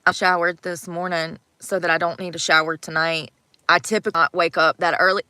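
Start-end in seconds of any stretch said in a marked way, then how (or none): 0.0-3.3 hiccuping mid-sentence; hiccups. Real, not acted. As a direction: talk through hiccups. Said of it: "I got the hiccups".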